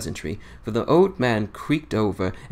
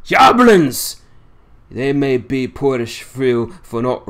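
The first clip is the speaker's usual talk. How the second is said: lightly voiced old seaman in thick dialect, scornful; a hint of a crusty old fisherman railing against lies; old Yorkshire sailor; 2 semitones higher, 6 dB louder than usual. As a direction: grumble it like a cantankerous old salt holding court. Swales retorts to Mina.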